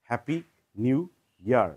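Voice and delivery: a muddled British-American happy new year; half one, half the other; mixed-up accent. Shown as a demonstration. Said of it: "জগা খিচুড়ি". (জগা খিচুড়ি উচ্চারণে)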